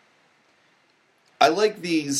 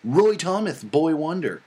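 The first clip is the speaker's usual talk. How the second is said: higher, indignant nerdy reading; 3 semitones higher than usual. Pretend. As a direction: read like a huffy fanboy. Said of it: "read it in a nerdy voice".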